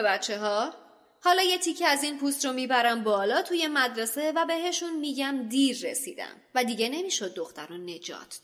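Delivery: put-on treacherous teacher gloating at the boys; gloating villain. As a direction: savour the triumph over the children. Lockhart turns villain, gloating.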